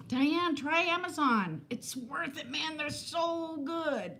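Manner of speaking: slow, laid-back surfer dude. Pretend. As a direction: drawl it like a surfer. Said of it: "If I talk like a surfer dude".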